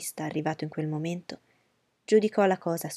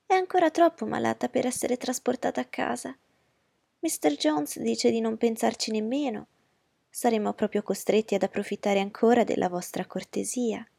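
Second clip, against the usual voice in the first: fussy society mother, higher voice; Mrs Bennet's voice; 5 semitones higher than usual. Acted. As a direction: play the anxious mother.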